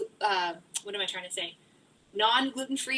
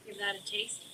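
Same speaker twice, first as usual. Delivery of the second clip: unvoiced soft aside; whisper; 2 semitones lower, 5 dB quieter than usual. Real, not acted. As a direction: say it under the breath. Whispered aside while tasting.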